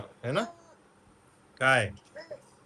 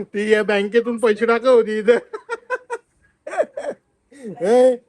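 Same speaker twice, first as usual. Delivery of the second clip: excited; 6 semitones higher, 7 dB louder than usual. Real, not acted. Loudly quizzing the child.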